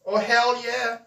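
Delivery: a loud, high, delighted "hell yeah"; excited. Real, not acted. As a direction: cheer it out. Reading chat, enthusiastic reply.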